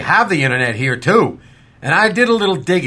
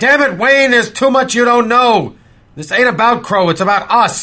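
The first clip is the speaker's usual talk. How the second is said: higher-pitched, frustrated rebuke; exasperated retort; 5 semitones higher than usual. Acted. Sheriff cutting Wayne off mid-quarrel, exasperated retort. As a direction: cut in with raised exasperation.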